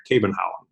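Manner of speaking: "Kebenhavn" as KAY-ben-hown; attempted Danish pronunciation. Shown as a demonstration. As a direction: have a tentative go at Danish "Kebenhavn". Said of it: "the actual way to pronounce it".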